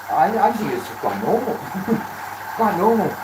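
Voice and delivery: swoopy pitch with a chuckle between phrases; playfully protest, breaking into a small laugh; amused. Real, not acted. Streamer brushing off compliments on his cool accent, amused.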